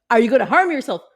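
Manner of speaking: dispatcher voice. Pretend. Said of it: "I can imagine the call".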